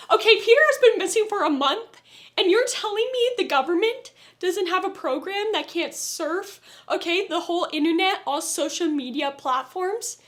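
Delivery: exasperated outburst at the plot hole; annoyed rant. Real, not acted. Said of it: "that pissed me off".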